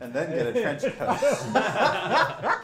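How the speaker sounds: gnome voice. Pretend. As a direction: drag it out like a scheming gnome. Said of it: "that's more of a gnome voice than a weasel voice".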